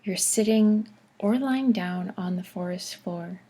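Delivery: unhurried forest visualization, phrase by phrase; calm meditation narration with spacious pauses; guided meditation. Acted. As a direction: guide them gently through relaxation, pausing often.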